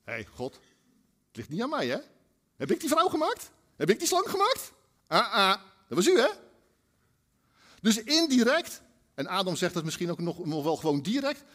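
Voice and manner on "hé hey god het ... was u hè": a defiant sinner talking back; mock indignation. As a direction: turn the blame on God. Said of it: "wat we daarmee eigenlijk bedoelen".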